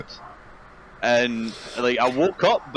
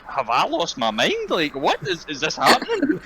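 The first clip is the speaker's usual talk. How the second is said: higher and higher, slow incredulous rise; mock disbelief; 10 semitones higher than usual. Grandson retelling how his grand stared at him, in mock disbelief. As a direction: voice grandma losing her mind at what she sees. Grandma's baffled thoughts voiced.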